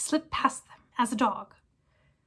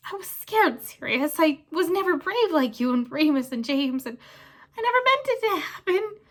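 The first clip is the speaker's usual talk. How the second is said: high, loud tearful whine; blubbering plea; 4 semitones higher, 4 dB louder than usual. Acted. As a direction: sob out excuses. Pettigrew sobs his excuses.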